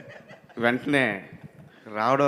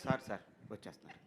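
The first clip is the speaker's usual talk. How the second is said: hurried meek excuse; 4 semitones lower, 10 dB quieter, faster than usual. Retold or imitated. Assistant hurriedly excusing himself.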